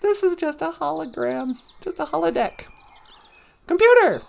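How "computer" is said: high, sharp summons; calling out a command. Pretend. Pretending to command the holodeck computer, calling out. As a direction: summon the machine by name.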